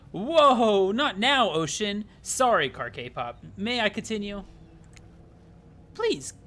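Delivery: hammed-up fussy narrator. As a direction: shoo the ocean away, then beg politely. Narrator scolds the ocean.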